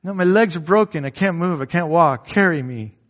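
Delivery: put-on a child insisting her legs are broken; imitating a whiny daughter. Daughter voiced in a story.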